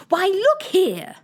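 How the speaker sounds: high, loud and slow exclamation; cried out. Acted. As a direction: cry out to make Alice look. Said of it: "the Red Queen cried".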